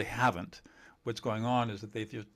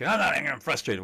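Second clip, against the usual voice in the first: mild mock yell; 4 semitones higher, 5 dB louder than usual. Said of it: "you yell back".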